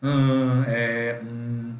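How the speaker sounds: blanking out with halting ums; drawn-out hesitation sounds; hesitant fillers. Shown as a demonstration. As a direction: stall like you forgot the answer. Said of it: "dá aquele branco, aí você fala".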